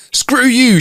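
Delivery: high, forceful mock scream; imitating an angry wife's scream; retold scream. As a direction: hurl it back in a high yell. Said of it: "she screamed back at me".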